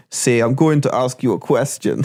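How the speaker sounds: lightly imitated action-star accent; a hint of an Austrian movie tough guy; Arnold Schwarzenegger. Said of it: "one that was Arnold Schwarzenegger".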